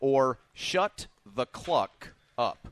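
very slow delivery, each word stretched out. Speaker on a show, pointing out his own delivery: very, very slow. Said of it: "You notice how I said that very, very slowly".

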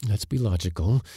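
usual speaking voice

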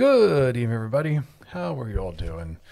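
slightly somber tone. Host opening the show, greeting everybody: a little somber voice. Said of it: "i say that with a little bit of a somber voice".

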